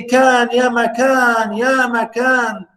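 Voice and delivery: slow, high "Kan, ya makan" like a fairy-tale start; storyteller opening. Shown as a demonstration. Teacher voicing an Arabic storyteller opening, slow and lilting. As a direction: open it like a grandmother's story. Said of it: "as if he's telling us a story".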